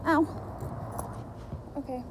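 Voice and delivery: hopping on burning feet; rapid pained ows; walking on hot sand. Real, not acted. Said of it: "My feet are burning".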